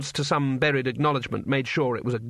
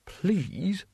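measured, slightly higher schoolmasterly correction; patient civilized teacher; 4 semitones higher, slower than usual. Acted. Mister Saveloy corrects a warrior's language, patient and insistent. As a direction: stretch key words in polite insistence. Teacher figure lecturing the horde.

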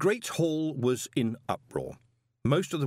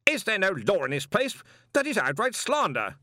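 high, louder indignant shout; 10 semitones higher, 4 dB louder than usual. A narrator's reading. Stoley shouts his outrage at the accusation, louder. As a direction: shout the protest across the room. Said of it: "shouted Stoley".

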